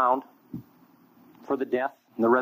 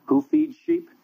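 emphatic question; 4 dB louder, slower than usual. Real, not acted. Rhetorical question to crowd.

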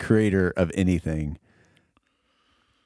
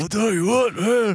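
Stone Cold impression. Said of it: "I can't do an impression of him".

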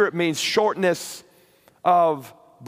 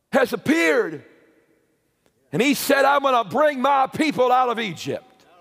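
Moses proclaiming; 6 semitones higher than usual. Acted. Moses quoted, preached.

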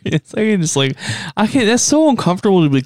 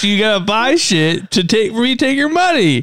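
mock rude clerk; 5 semitones higher than usual. Friend voicing rude clerk.

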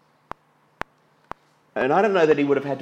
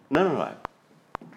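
slow firm denial; much slower than usual. Acted. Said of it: "slow emphatic denial".

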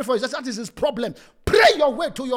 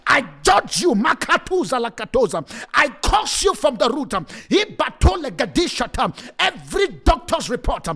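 laying a curse. Acted. Warfare prayer against the enemy.

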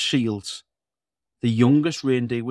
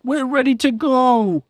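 Santa voice; 13 semitones higher, 5 dB louder than usual. Acted. Santa speaks.

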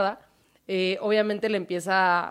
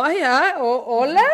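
startled hello; 4 semitones higher, 5 dB louder than usual. Retold or imitated. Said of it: "en la oscuridad dice como".

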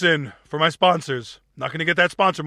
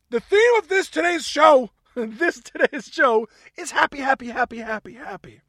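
sing-song theme; 5 semitones higher, 3 dB louder than usual. Acted. Announces show theme, sing-song.

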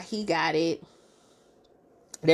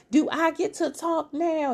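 high, slow mock question; sarcastic husband; 10 semitones higher than usual. Retelling Chris at dinner, slow sarcastic question. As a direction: drag it out pointedly.

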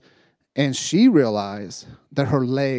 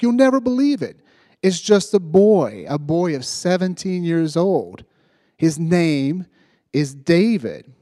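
higher and louder, full of wonder; amazed announcement; 4 semitones higher, 5 dB louder than usual. Retold or imitated. Friend tells him the preacher is a boy, amazed. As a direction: sell the news like a marvel.

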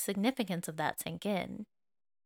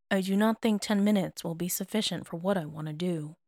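matter-of-fact. Acted. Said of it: "said rather matter-of-factly".

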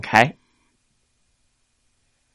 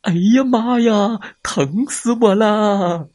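tiger crying out; 9 semitones higher than usual. Acted. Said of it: "疼得他直喊".

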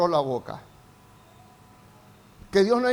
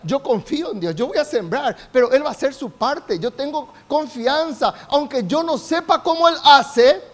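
confident declaration; 4 semitones higher, 4 dB louder than usual. Acted. Preacher voices the confident farmer.

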